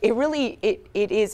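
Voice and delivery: slightly choked voice, holding back tears. Real, not acted. News host moved by a rescued dog story, slightly choked up. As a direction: push through a lump in the throat. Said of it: "I'm getting a little choked up".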